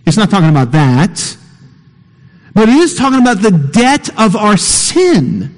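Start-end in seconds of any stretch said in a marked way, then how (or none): 2.5-5.5 emphatic. Real, not acted. Preacher emphasizing point.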